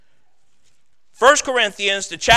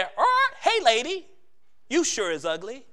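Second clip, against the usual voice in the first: parrot voice; 3 semitones higher than usual. Acted.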